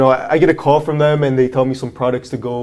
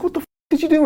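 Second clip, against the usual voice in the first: furious client yelling; much faster than usual. Retold or imitated. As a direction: screech it like a raging brute. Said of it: "He's like".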